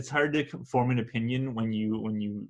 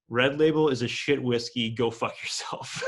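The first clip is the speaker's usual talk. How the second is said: laughing while quoting. Retold or imitated. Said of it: "this person said".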